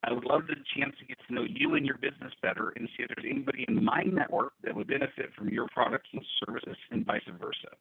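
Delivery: choppy dropouts, words cutting out; bad Bluetooth connection breaking up; corrupted glitchy audio. Real, not acted. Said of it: "your audio is cutting out again".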